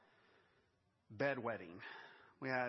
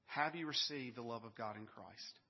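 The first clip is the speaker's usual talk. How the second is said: pulled-back repeat; 2 semitones lower than usual. Acted. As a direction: let the question sink in the second time. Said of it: "first question I want to ask you".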